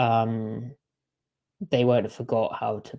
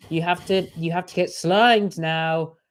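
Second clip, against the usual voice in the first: lightly acted pleading, higher and louder; mock insistent host; 4 semitones higher, 4 dB louder than usual. Hosts telling an upset player about sliming, mock-insistent. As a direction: press the reluctant player, stretching the end.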